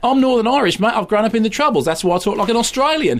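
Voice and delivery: hammed-up Northern Irish accent, pitched well up; a mock Northern Irish lad who sounds Australian; the speaker's Northern Irish accent. Mocking the actor's Northern Irish accent for his co-host. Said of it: "That was him doing Northern Irish".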